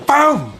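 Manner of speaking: high, loud shouted slap sound; shouted bam for a slap. Retold or imitated. Telling how his brother's slap landed, a loud high bam. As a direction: smack the word out like a hit.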